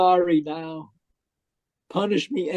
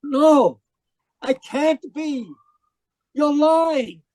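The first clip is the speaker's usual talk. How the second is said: panicked denial; 6 semitones higher, 5 dB louder, slower than usual. Acted. Arrested man refuses to believe.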